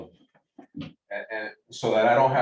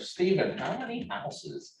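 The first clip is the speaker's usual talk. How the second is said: mock client voice, pitched up; skeptical client voice; 4 semitones higher, 3 dB quieter than usual. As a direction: put on a nosy homeowner. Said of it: "Is that your real voice, bro?".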